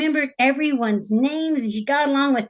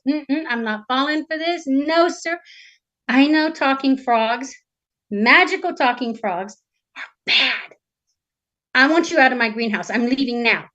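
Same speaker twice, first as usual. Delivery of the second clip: tag firm princess; 2 semitones higher than usual. Acted. Storyteller voices the princess refusing.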